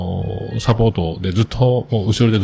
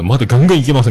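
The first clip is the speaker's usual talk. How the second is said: cocky boast; 4 semitones higher, 5 dB louder, much faster than usual. Retold or imitated. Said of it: "みたいな、もう調子乗って言って".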